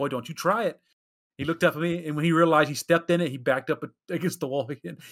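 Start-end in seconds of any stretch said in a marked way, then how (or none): 0.0-0.8 stern, no-nonsense, dead serious tone. Retelling a warning said to a child: Kratos voice. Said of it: "He had to pull out the Kratos voice".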